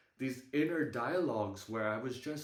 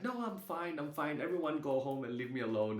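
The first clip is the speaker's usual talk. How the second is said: lightly voiced stubborn insistence, pitched up at first; stubborn grandmother; 3 semitones higher than usual. Grandmother waving the family away, mildly stubborn. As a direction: imitate a grandmother brushing everyone off. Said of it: "a little bit stubborn".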